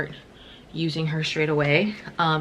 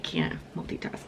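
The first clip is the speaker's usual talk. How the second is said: muttered aside; 8 dB quieter than usual. Real, not acted. Muttered aside while doing things.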